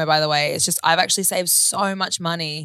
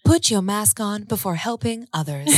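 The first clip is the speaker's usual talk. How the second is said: flight attendant; 3 semitones higher than usual. Acted. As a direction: deliver the safety line like cabin crew. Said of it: "Wow, that was good".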